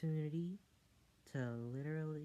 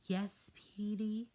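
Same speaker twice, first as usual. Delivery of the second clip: whisper; 8 semitones higher, 5 dB louder, slower than usual. Acted. Guard answers Petey.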